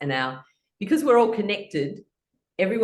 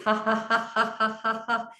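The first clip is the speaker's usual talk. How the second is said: laughing sounds; 3 semitones higher than usual. Shown as a demonstration. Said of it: "we're making laughing sounds".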